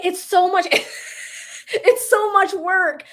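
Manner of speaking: high, loud, comically strained groan; laughing complaint. Real, not acted. Coach admits to Sarah the work is hard, laughing complaint. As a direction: break up halfway, then draw out the complaint.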